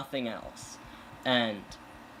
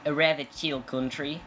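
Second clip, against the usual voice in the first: weak attempt at an Australian accent; half-hearted Aussie accent. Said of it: "my Australian accent decides to be good. Today is not one of those days".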